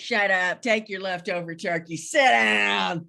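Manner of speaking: mock scolding. Mock parent snapping at daughter.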